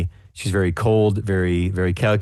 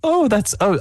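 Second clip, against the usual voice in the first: ordinary talk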